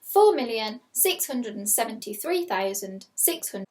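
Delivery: slow, careful repeat of the number; slow school dictation. Shown as a demonstration. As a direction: dictate it again slowly. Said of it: "I will read it again".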